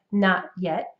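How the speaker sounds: North American "not yet", T's barely there; soft final T's. Shown as a demonstration. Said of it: "gonna be just barely there".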